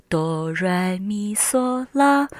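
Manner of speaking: stepping up the scale from bass to treble. Shown as a demonstration. Teacher showing the five pitch levels, rising step by step. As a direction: climb a note with each syllable. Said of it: "higher and higher".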